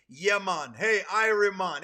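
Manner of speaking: loud, hammed-up fake Jamaican greeting; mock Jamaican accent. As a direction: imitate outsiders putting on a Jamaican accent. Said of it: "Just like how people say to me".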